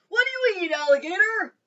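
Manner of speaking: frog voice. A narrator's reading. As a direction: boast like a cheerful big-mouthed frog. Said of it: "said the wide-mouthed frog".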